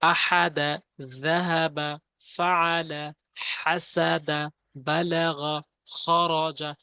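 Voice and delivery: each Arabic word read syllable by syllable, clearly and evenly; Arabic reading demo. Shown as a demonstration. Teacher to students learning the Quran, careful Arabic reading demo. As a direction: model each word slowly for students to copy. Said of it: "যেমন আমি যদি একবার reading বলি".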